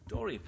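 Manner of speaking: Doreen said with a short Yorkshire vowel. Shown as a demonstration. Preacher showing the other county's Doreen. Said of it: "She was Doreen".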